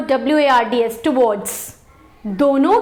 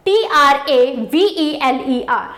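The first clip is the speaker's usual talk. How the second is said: spelling out slowly; much slower than usual. Shown as a demonstration. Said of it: "ट्रैवलर".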